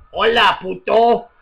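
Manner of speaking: slow mock Chavez reply; a lightly voiced Venezuelan president, drawn out; imitating Hugo Chavez. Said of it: "the conversation went something like this".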